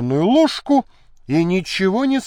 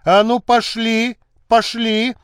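gruff order; 6 semitones higher, 4 dB louder than usual. Acted. Officer hustles her out.

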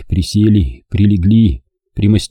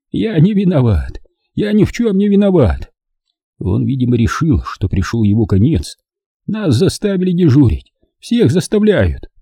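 put-on higher, desperate old man's plea; pleading; 6 semitones higher than usual. A narrator's reading. Old German on his knees begs partisans, higher pleading voice. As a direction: beg for your life on your knees. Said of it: "взмолился".

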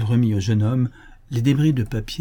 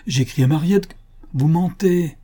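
put-on irritated old woman raising pitch and voice a little; indignant accusation, mildly acted; 6 semitones higher than usual. A narrator's reading. Infirm old woman calls Louis a liar, irritated. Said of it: "de plus en plus irritée".

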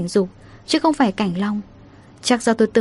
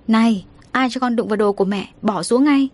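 sharp mock scold, rising at the end; a mother snapping at her child to put it down; hammed-up motherly telling-off. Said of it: "Mẹ tôi quát lớn".

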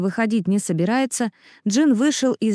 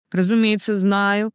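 gloomy sneer. Acted. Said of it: "мрачно съехидничал Маттео".

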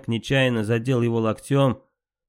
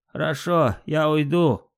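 ordinary delivery, nothing marked

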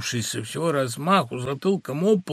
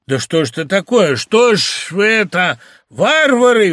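higher, louder, rising to a cry; furious outcry; 5 semitones higher, 7 dB louder than usual. Acted. Husband seeing his wife with the clerk, furious outcry. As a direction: cry out in outrage. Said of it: "вскрикнул весь побагровев".

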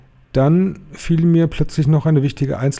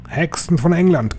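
screeching; 6 semitones higher than usual. A narrator's reading. Grand High Witch to the witches of England, high screech. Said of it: "kreischte sie".

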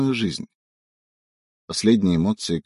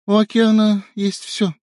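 bright playful reply; 11 semitones higher, 4 dB louder than usual. A narrator's reading. Wife answering, high.

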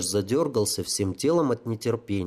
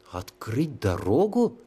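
spellbound; 3 semitones higher, slower than usual. Acted. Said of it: "заворожённо повторил тётя".

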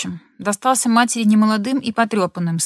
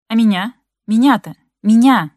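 each "меня" louder than the last; rising hurt outcry; 2 semitones higher, 7 dB louder than usual. Acted. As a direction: build from hurt to a shout. Wife losing control. (жена срывается на мужа: всё громче, до крика)

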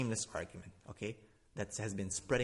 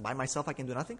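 incredulous question; faster than usual. Shown as a demonstration. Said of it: "So he's not God".

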